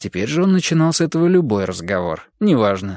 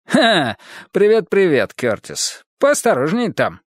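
cheerful; 6 semitones higher than usual. Acted. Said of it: "бодро сказал он".

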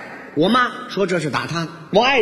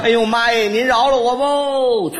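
panicked begging; 2 semitones higher than usual. Acted. Son begs mother for mercy.

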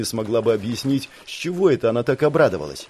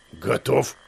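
blurted out. Acted. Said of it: "резко выпалил".

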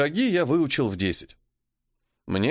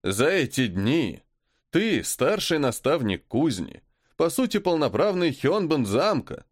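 quiet menace; 5 semitones higher than usual. Acted. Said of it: "гораздо тише спросил".

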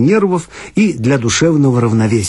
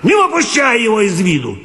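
shouting; 9 semitones higher than usual. Acted. Watchman yelling to the boy.

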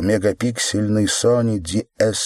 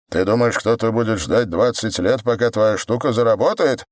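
flaring up; 3 semitones higher than usual. Acted. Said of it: "взвился коп".

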